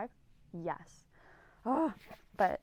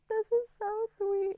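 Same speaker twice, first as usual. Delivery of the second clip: high, slow, loud delighted squeal; gushing squeal; 10 dB louder, slower than usual. Retold or imitated. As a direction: squeal it like a gift just melted you. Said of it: "I was like".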